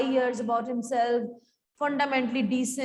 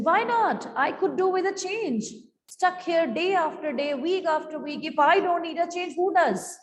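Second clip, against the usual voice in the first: higher, put-upon mother complaining; Mrs Pearson's voice; 4 semitones higher than usual. Acted. Mother defends her wish to go out, in a higher voice. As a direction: play the fed-up mother demanding a change.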